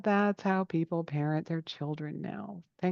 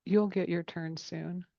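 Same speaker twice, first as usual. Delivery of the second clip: gentle dad; 3 semitones lower, 6 dB quieter, slower than usual. Retold or imitated. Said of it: "he said".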